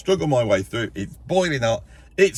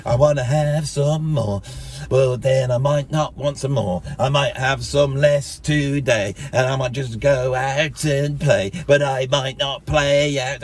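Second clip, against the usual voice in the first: slow, dreamy musing; singsong inner voice; slower than usual. Retold or imitated. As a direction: drift through the words like a daydream. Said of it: "you go like".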